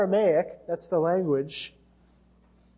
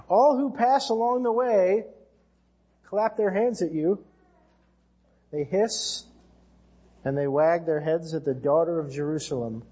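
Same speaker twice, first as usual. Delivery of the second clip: dramatic scripture reading; 3 semitones higher than usual. Acted. Reading the mocking Lamentations lament.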